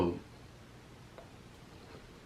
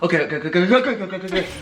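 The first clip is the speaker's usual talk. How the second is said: being tickled; 3 semitones higher, much faster than usual. Real, not acted. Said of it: "I'm mad ticklish".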